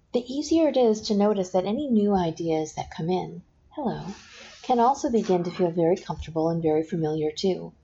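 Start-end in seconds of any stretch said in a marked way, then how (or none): none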